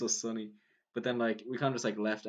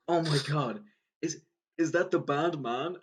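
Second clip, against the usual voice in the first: higher, louder mock awe; imitating amazed fan; 5 semitones higher, 4 dB louder than usual. Cyclist spots the band sweater, imitated amazed excitement. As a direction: act out a stranger thrilled to spot the band. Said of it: "he looked so happy".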